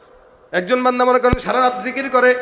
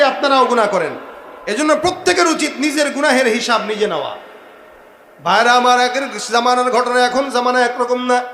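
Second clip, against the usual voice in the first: loud, raised preaching; forceful exhortation; 3 semitones higher, 4 dB louder than usual. Real, not acted. Preacher urges brothers to count their own sins, forceful exhortation. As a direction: exhort the congregation with energy.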